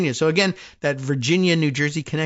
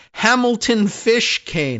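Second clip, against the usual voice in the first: amazed; 8 semitones higher, slower than usual. Real, not acted. Marvelling at the grand family name.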